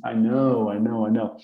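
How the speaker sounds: mock fluent nodding. Teacher acting a student faking fluency in conversation. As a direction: fake understanding with easy I know, I know. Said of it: "a fazer I know, I know".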